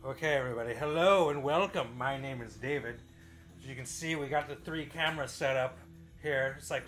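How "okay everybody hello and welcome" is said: ordinary delivery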